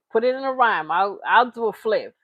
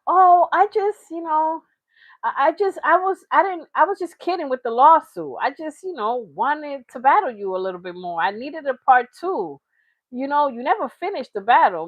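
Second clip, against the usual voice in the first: mock rapper; 3 semitones higher than usual. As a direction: stumble over excuses like a caught kid. Voicing a rapper sheepish and stammering.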